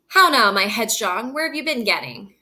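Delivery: a loud, stern father reading Shakespeare aloud. Acted. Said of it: "Hey, headstrong girl, where have you been?".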